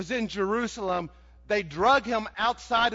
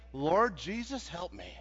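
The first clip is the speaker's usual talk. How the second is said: quiet prayer; 3 semitones lower, 6 dB quieter than usual. Shown as a demonstration. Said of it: "learn how to say".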